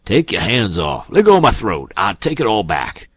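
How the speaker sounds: loud, high panicked cry. A narrator's reading. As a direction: yelp while being throttled. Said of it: "The king sings out".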